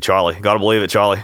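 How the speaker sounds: warming up an Australian voice; Australian catchphrase impression; Australian accent. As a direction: practice your put-on Aussie accent. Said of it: "get in the Australian voice".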